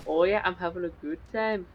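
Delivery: put-on second stab at a rough Scottish accent; amateur Scottish accent. Player redoing the lone defender's line, makeshift Scottish accent. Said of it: "It's Scottish".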